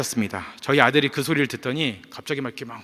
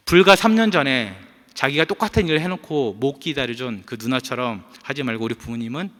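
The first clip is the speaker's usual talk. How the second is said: ordinary talk, nothing marked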